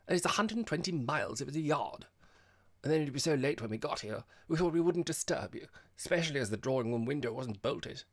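loud, high, hearty chatter; breezy young visitor. A narrator's reading. Girl explains arriving late at night, loud and breezy. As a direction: explain it all with gusto.

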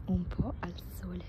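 voice giving out. Real, not acted. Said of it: "non ho più voce letteralmente".

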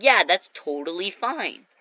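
slow, easygoing okay; chill teacher. Retold or imitated. Chill teacher allowing the kids' plan, relaxed and drawn out. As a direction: stretch it out, totally unbothered. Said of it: "The teacher was really chill".

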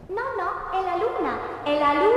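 echo voice. Acted. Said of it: "Sono l'eco".

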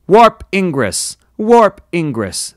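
loud, high, drawn-out alert call; shouted alarm. A narrator's reading. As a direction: shout it slowly like a ship's alarm. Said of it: "the alarms shouted".

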